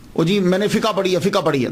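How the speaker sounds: "فقہ" casually as fi-kaa; everyday colloquial pronunciation. Retold or imitated. Lecturer imitating ordinary people, "فقہ" casually as fikaa. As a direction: say "فقہ" loosely with a final open a. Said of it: "دیکھا نا عام چلتا ہے نا".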